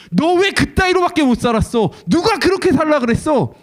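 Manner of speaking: high, loud furious rebuke; mock angry scolding. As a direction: yell at her in scorn for how she lived. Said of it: "이렇게 화를 내시는 것이 아니라요".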